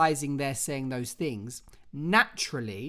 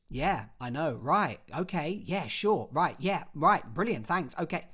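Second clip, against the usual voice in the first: rapid-fire phone replies, one on top of another; hurried one-sided phone call; no pauses. Shown as a demonstration. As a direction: rattle off the responses without leaving gaps. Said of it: "we don't do that. What we do is we allow pauses".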